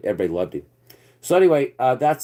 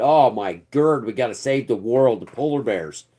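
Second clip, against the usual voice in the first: mocking. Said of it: "Everybody's just clapping, saying".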